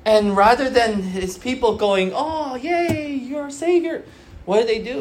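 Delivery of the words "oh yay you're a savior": mock praise. People mockingly praising Moses.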